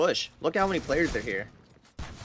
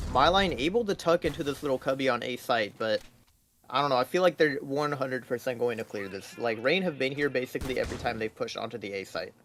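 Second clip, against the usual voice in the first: esports caster. Acted. Live play-by-play casting.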